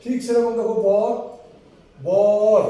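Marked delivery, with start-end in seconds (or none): 2.0-2.6 বর said loud so the ব-অ is clear; sounding out বর. Shown as a demonstration. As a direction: stress বর as bɔr with a full অ. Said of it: "ব এখানে অ আসছে".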